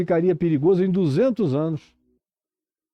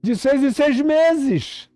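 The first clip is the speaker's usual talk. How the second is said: urgent, insistent sermon delivery; impassioned preaching; 9 semitones higher than usual. Real, not acted. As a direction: preach it with rising urgency, stretching the key words.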